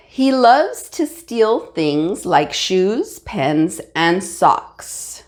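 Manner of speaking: slow, deliberate reread; slow down to catch the mistakes. Shown as a demonstration. Teacher rereading slowly to show students how to check. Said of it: "you have to reread the sentence over and over".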